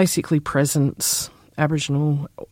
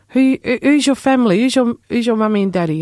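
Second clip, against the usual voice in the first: higher, quick prying auntie questions; eager older auntie; 8 semitones higher, 7 dB louder than usual. Retold or imitated. Older auntie quizzing a lost young journalist, high eager voice. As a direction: press a young stranger for his family, high and eager. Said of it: "And she goes".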